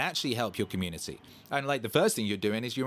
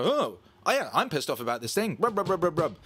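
mock outrage; 7 semitones higher, 4 dB louder than usual. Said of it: "And people go".

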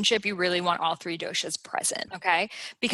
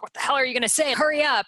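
impatient pitta; 5 semitones higher, faster than usual. Retold or imitated. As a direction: hurry them along, half-playful. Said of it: "pittas are like".

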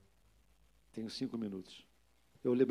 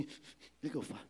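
inner thought; 10 dB quieter than usual. Retold or imitated. Pastor wondering what to say to the man, hushed. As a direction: mutter it as if only in your head. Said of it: "na tua cabeça, passa assim".

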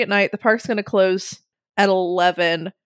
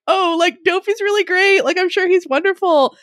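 gushing praise; 10 semitones higher than usual. Retold or imitated. Gushing defence of Dopey.

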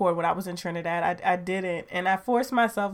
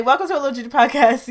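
excited welcome; 5 semitones higher, 12 dB louder, much faster than usual. Pretend.

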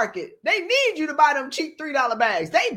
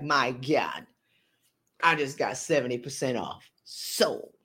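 whisper; 13 semitones lower, 5 dB quieter, slower than usual. Retold or imitated. Shopper whispering after bargain.

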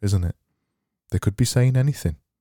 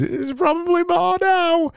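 squeaky aside. Acted.

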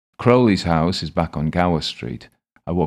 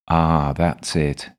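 beaming; much slower than usual. Acted. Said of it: "he beams".

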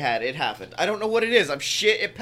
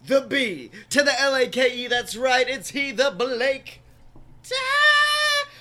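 announcer; 3 semitones higher than usual. Acted. Podcast intro hype.

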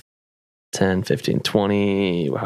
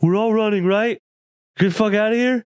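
much higher, frantic yell to flee; panicked shout; 10 semitones higher than usual. Pretend. Fleeing while carrying Kashak, much higher frantic shout. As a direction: holler at everyone to run. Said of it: "and then be like".

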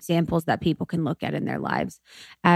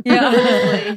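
high pitched laughing agreement; laughing along, real; 6 dB louder than usual. Real, not acted. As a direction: giggle out the words. Laughing at friend's impression.

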